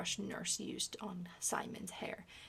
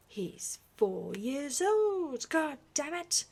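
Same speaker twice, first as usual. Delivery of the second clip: furious roar, much louder and higher, slow start; full-throated furious roar; 7 semitones higher, 9 dB louder, slower than usual. Acted. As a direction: roar it in fury at the nurse. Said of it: "the Duke roared".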